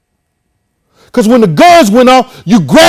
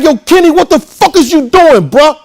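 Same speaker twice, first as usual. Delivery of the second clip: alarmed yelling at Kenny; 6 semitones higher than usual. Retold or imitated. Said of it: "I'm like".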